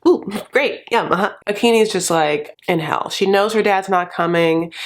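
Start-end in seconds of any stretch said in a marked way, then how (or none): 0.1-1.3 fake enthusiasm. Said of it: "He's like".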